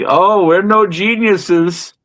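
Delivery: slow, high motherly kvetch; Jewish mother voice. Retold or imitated. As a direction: play a fussy Jewish mother. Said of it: "in his Jewish mother's voice".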